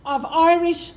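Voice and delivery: measured, solemn reading of a historic proclamation; formal proclamation reading. Shown as a demonstration. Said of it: "to now read the proclamation".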